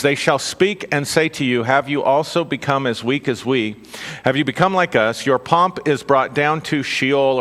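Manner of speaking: measured scripture reading voice. Acted. Preacher reading Isaiah to the congregation, measured reading. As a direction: read it out as holy text, steady.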